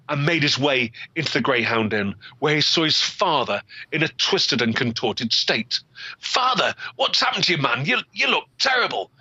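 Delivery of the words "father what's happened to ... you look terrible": much higher, alarmed cry; shocked son. Acted. Son seeing his twisted father, high shocked cry. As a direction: recoil at the sight of him.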